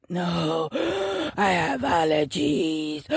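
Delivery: very slow words between wheezy gasps; struggling to breathe. Retold or imitated. Telling the worried woman it is allergies, struggling to breathe. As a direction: imitate gasping out an answer. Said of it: "trying to breathe".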